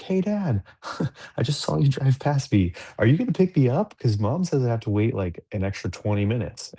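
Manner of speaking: put-on high, bright kid voice calling out to Dad; imitating his daughter. Daughter on the phone asking Dad to pick her up, high childlike voice. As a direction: pitch way up to play the little girl. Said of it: "she's like".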